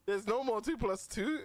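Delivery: mocking quote. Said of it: "He said".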